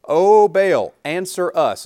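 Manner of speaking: loud, long-held mock plea; pleading to Baal. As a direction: call out loudly to a silent god. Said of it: "is what they said".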